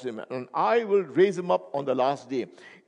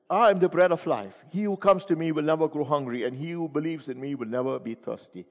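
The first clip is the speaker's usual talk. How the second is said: proclaiming; 2 semitones higher than usual. Shown as a demonstration. Preacher proclaiming the verse to the congregation. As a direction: ring it out to the back row. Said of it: "Look at the repetitions".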